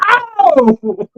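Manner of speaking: high, drawn-out "ow!"; whooping howl. Real, not acted. Teasing a friend about being her husband, mock-pained howl. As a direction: yelp it high after landing a jab.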